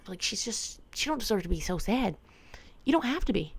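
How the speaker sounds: tender pity. Retold or imitated. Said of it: "I'm like".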